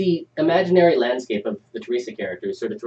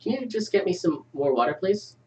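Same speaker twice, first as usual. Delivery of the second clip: put-on child voice; 6 semitones higher, 3 dB quieter than usual. Child voice in read script.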